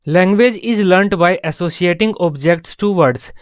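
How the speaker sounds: very slow, word by word, for notes; slow dictation. Shown as a demonstration. Teacher to class, dictating a definition at a very slow pace. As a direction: spell it out slowly so students can write.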